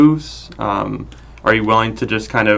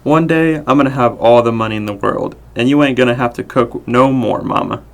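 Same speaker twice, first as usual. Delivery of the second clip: put-on child voice. Adult voicing child.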